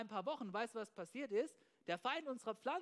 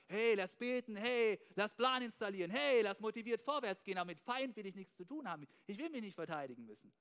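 mock eager churchgoer; 3 dB louder than usual. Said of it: "du kommst nur und sagst".

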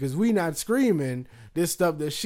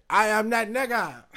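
high mom voice; 7 semitones higher than usual. Retold or imitated. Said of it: "my mom had said".

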